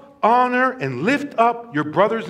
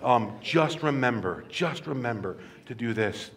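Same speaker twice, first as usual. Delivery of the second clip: imitating a coach's low, reassuring talk; gentle coach, not yelling; 6 semitones lower, 4 dB quieter than usual. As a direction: lower the voice and reassure the player. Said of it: "he did not yell. He'd be like".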